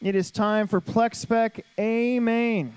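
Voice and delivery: drawn-out event announcement; slow, grand announcer build; announcer call. Real, not acted.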